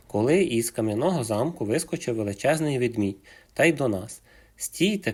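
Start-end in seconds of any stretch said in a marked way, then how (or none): 4.6-5.1 high sharp shout of a rival bear; shouting stop. A narrator's reading. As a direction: yell it to halt them. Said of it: "кричить".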